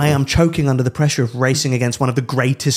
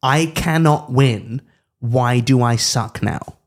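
slow mock whine; 3 semitones lower, slower than usual. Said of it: "What he means there is".

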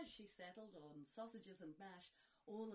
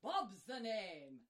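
brash Belfast-style geezer; cheeky fairy godfather; 2 semitones lower, 9 dB louder than usual. Acted. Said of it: "said Bob with a wink".

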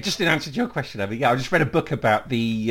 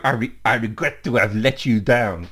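lightly put-on French accent; a hint of hammy French accent; 3 semitones lower than usual. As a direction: read it out in a mock French accent. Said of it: "I just read it in a French accent".

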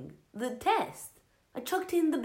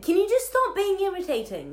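irritated snap; 11 semitones higher, 5 dB louder than usual. Acted. Irritated flatmate snaps.

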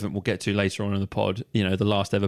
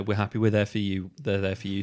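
forced out through gritted teeth; grudging, jaw clenched tight; 2 semitones lower than usual. Acted. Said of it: "Stop talking through gritted teeth".

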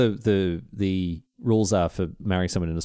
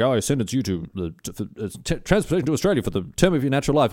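mock judge; faster than usual. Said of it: "the judge's like".

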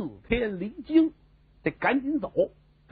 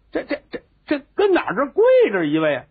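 startled exclaim; 6 semitones higher, 4 dB louder, faster than usual. Acted. Princes startled by kneeling man.

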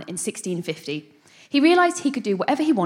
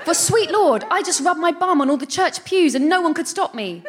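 gleeful; 6 semitones higher, 3 dB louder than usual. Acted. Monsieur Nie's exultant shout continues.

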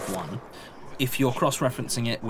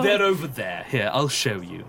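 librarian voice. Acted. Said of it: "this is the librarian's voice".

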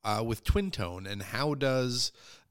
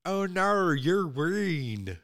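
put-on terrible Australian accent; 7 semitones higher, much slower than usual. Host jokingly tries a Bluey-style Australian accent on the guest. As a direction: toss off a bad Australian accent for a laugh. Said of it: "that's my terrible Australian accent".

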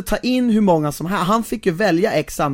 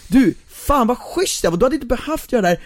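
gushing gratitude; 5 semitones higher than usual. Retold or imitated. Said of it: "den ultimata tacksamhetsgrejen".

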